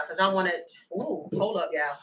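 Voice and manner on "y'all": usual speaking voice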